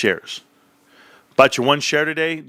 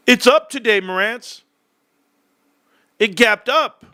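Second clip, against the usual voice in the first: much higher, louder burst of excitement; excited; 10 semitones higher, 3 dB louder than usual. Real, not acted. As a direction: crow about the gain. Excited stock announcement.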